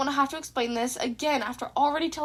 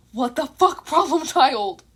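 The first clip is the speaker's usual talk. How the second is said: exasperated disbelief; 4 dB louder, slower than usual. A narrator's reading. Repeated exasperated refrain.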